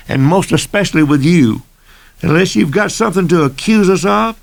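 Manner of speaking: rising into a heated tirade; angry. Acted. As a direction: pitch climbs as he loses patience. Gentry blows up at the deputy.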